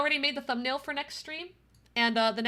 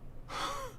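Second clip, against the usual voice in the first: soft winded exhale; acted out-of-breath sigh; 11 dB quieter than usual. Runner reaching the apartment, acted winded sigh. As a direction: puff out a breath as if after running.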